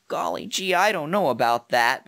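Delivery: hesitant, meek voice starting high; timid character. Shown as a demonstration. Voice actor setting up a timid character, meek hesitant voice. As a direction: sound unsure, like a timid soul. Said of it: "Another character was sort of timid".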